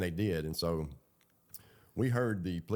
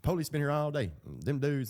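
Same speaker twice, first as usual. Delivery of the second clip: imitating a kid yelling it out, higher; loud kid; 8 semitones higher than usual. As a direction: retell a kid hollering the news. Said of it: "he's loud as hell".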